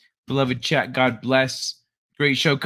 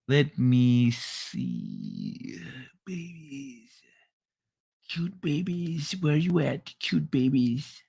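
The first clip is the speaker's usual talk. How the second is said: quiet murmur; 7 dB quieter, much slower than usual. Real, not acted. Searching for clips, murmuring.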